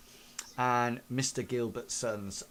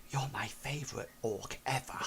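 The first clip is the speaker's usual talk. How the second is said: soft unvoiced whisper in the ear; 5 dB quieter than usual. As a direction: breathe it sweetly into his ear. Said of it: "you hear her whisper".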